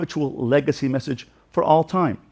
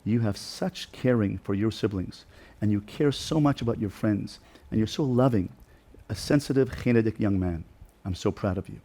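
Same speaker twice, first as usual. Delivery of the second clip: softer, hushed words of praise; tender whisper; 6 dB quieter than usual. Retold or imitated. Father whispering praise to his son, soft and loving. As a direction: whisper it gently, close to his ear. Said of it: "And I gave him a whisper".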